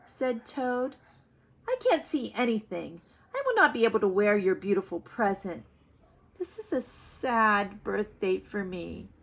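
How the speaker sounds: put-on reading a children's story aloud to the class; read-aloud storytelling. A narrator's reading. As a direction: tell the story to young listeners. Teacher reads story aloud.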